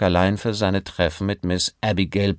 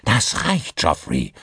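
gruff; slower than usual. Acted. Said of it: "sagte er barsch".

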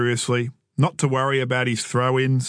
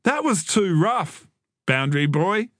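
hurt complaint; 6 semitones higher than usual. A narrator's reading. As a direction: object like a sore little brother. Hurt boy complains on the ground.

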